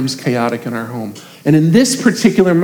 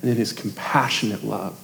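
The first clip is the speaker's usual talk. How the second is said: soft closing words; 5 semitones lower, 9 dB quieter than usual. Real, not acted. Closing sermon cadence.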